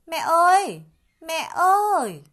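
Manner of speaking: put-on high, loud child's call for mom; little monkey calling. A narrator's reading. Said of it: "Khỉ con ngơ ngác gọi". (tiếng gọi mẹ cao, to, ngơ ngác)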